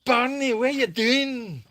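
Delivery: high, loud, drawn-out call to a dog. Real, not acted. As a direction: slowly call out to a misbehaving dog. Calling to the dog Barney.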